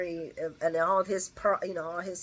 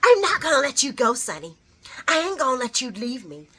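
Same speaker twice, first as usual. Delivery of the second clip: mock sob, louder and pitched up; imitating a crying plea; 5 semitones higher, 7 dB louder than usual. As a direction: whine it like a desperate plea. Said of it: "and she's like".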